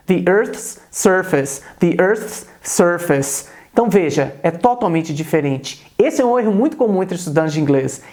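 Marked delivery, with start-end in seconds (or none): 0.1-1.6 "The Earth's surface." slowly and clearly; teacher models phrase, slow and careful. Shown as a demonstration. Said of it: "Então eu posso dizer em inglês". 1.8-3.5 "The Earth's surface." repeated slowly, crisp th; teacher repeats for students, slow. Shown as a demonstration. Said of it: "Então eu posso dizer em inglês".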